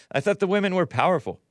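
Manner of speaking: fast mocking laugh; mocking the idea with laughter; sarcastic laughing. Real, not acted.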